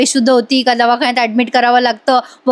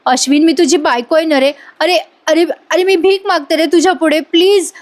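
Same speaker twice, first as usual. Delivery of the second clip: higher, imploring, lightly hammed-up plea; emotional blackmail; 5 semitones higher than usual. Wife begs Ashwin to accept her, retold emotional pleading. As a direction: play on his guilt with mock desperation. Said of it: "blackmail करायला लागते बरं का emotionally".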